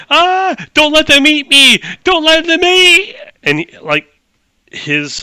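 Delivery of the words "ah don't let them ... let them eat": high, loud screamed plea; terrified scream. Acted. Game master as a man bursting through the door, screaming. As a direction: scream it out as a man begging for rescue. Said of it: "he's screaming".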